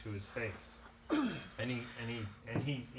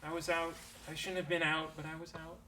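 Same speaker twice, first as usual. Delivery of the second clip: sick Darius; 3 semitones higher, 5 dB quieter than usual. Acted. GM voices sick Darius explaining.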